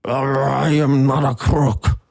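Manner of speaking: slow, deliberate Nixon voice; lightly voiced Richard Nixon; Nixon impression. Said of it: "Tricky Dick".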